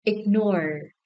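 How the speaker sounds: "Ignore" with the final syllable stressed; stress on second syllable. Shown as a demonstration. Teacher checking stress answers with class, second-syllable stress on "Ignore". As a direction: lean on the "nore" of "Ignore". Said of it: "The second syllable is stressed as well".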